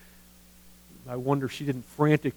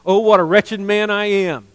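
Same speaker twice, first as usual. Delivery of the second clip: loud, higher lament over his own wretchedness; anguished cry of Paul; 6 semitones higher, 9 dB louder than usual. Retold or imitated. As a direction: cry it out like a man crushed by his sin. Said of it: "he wrote".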